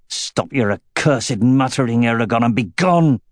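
growling through clenched teeth in pain; biting down on pain, teeth clenched; growled through clenched teeth. Acted. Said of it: "Sloane growled between clenched teeth".

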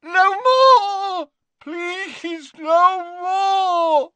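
agonized high scream, dropping to a wail on please; yelling Dumbledore. Acted. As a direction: scream as if burning inside. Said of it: "he yelled again as though".

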